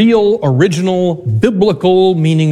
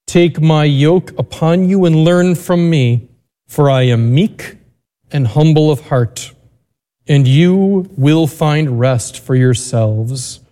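Gospel reading. Acted. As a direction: read scripture aloud with reverence.

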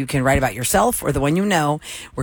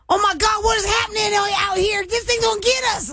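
panicked hick. Retold or imitated. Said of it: "just hilarious hicks that are like".

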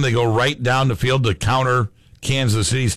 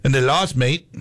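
put-on a light Australian accent on "mate"; 3 semitones higher than usual. Radio host mocking the Rams' loss in a playful Australian accent. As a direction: finish with a jokey Australian "mate". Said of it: "throw out my Australian accent".

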